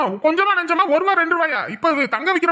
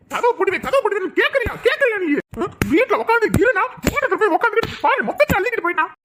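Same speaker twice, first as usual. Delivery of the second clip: scolding husband; 4 semitones higher than usual. Acted. Husband scolds wife while hitting.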